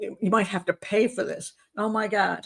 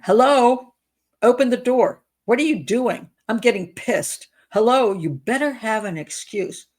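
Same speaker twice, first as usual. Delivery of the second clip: reading angry texts; 2 semitones higher, 3 dB louder than usual. Retold or imitated. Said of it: "let's look at his text messages".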